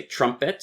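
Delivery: "trumpet" stressed on the first syllable; "trumpet", strong then weak; stress pattern demo. Shown as a demonstration. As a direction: say "trumpet" as TRUM-pet. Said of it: "stress, unstress".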